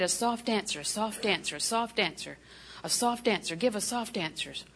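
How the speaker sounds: soft, repeated murmur; meditative repetition. Retold or imitated. Preacher meditating on scripture, repeating it softly. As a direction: repeat it softly, like a verse being memorised. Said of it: "I'd meditate".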